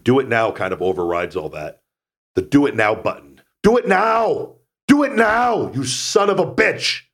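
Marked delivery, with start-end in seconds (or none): 3.6-7.0 high, loud Austrian bodybuilder bark; shouted mock Austrian action-hero accent; Arnold Schwarzenegger impression. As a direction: yell it like a bad Arnold. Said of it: "My shitty Arnold".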